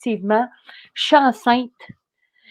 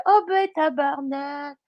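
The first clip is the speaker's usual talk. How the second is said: mock angry driver; 5 semitones higher, slower than usual. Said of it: "il fait".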